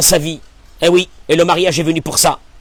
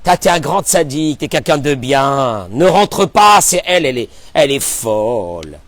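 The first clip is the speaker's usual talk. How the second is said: flattering tempter; 5 semitones lower than usual. Acted. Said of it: "il lui dit".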